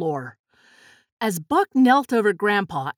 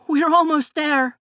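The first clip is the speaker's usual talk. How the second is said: high, louder call; 6 semitones higher, 5 dB louder than usual. A narrator's reading. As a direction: call ahead in a raised voice. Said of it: "the twins called".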